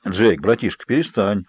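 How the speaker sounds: ordinary delivery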